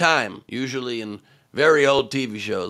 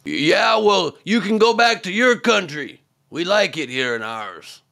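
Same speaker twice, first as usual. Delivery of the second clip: mocking Green; 7 semitones higher than usual. Comedian mimics Green's retort, mild mocking huff. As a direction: snap back like a sulky politician. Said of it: "The best Green can do to reply is".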